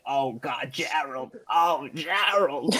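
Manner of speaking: lightly voiced old hag, drawn out; a hint of a crone, slowing on the name; Mildred. Drunk party impression of an old hag calling Gerald, lightly voiced. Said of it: "some old hag named Mildred".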